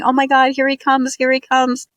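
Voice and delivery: high, breathless imitated excitement; excited gathering. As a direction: imitate a crowd thrilled at his arrival. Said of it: "getting so excited and saying".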